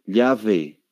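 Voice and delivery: demonstrated accent of Spain; Spanish accent. Shown as a demonstration. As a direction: show how Spain says "llave", as "lyave". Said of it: "qué tal si voy a España".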